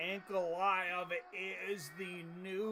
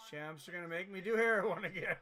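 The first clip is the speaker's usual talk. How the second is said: laughing; 3 dB louder, faster than usual. Real, not acted. Laughing at his own joke.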